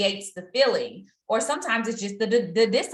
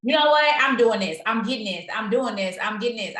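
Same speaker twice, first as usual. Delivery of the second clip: self pep talk; 4 dB louder than usual. Shown as a demonstration. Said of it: "pump yourself up".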